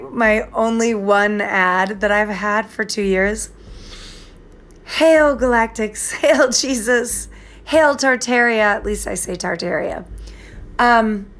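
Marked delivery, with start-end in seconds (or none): 4.8-8.6 mock hailing. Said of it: "excuse me for saying hail to the Galactics".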